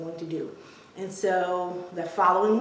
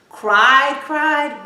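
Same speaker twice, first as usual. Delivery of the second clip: first "cried" louder and drawn out; stress on CRIED; 6 semitones higher, 10 dB louder than usual. Real, not acted. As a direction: hit both "cried"s, the first hardest. Doubled word meaning really cried.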